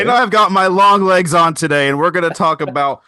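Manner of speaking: high, loud creepy villain voice; hammed-up horror movie voice. Podcast intro in creepy voice.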